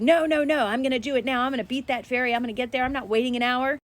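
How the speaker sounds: loud high mock tantrum, easing off; insistent retold outburst. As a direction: dig your heels in, no waiting. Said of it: "And I insisted".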